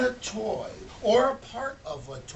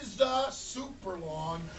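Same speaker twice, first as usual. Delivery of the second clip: wailing lament; 9 semitones higher, 8 dB louder than usual. Acted. Toymaker wailing over his worst Christmas, high crying shout. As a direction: wail it like a broken-hearted toymaker. Mr Smith's wail repeated.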